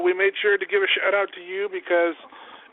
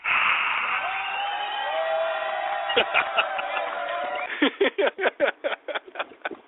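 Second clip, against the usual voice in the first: high squeaky laugh; 3 dB quieter than usual. Acted. Added applause sound effect.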